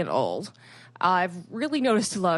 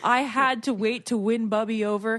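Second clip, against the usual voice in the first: mom's loud outburst; 4 semitones higher, 4 dB louder than usual. Retold or imitated. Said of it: "She goes".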